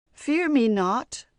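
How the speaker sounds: slow, loud, rising monster voice; a great lake monster calming her, slow and loud. A narrator's reading. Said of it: "the voice of the Taniwha".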